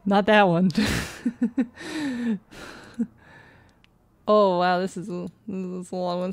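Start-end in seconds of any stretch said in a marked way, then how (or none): 4.3-6.3 sarcastic. Acted.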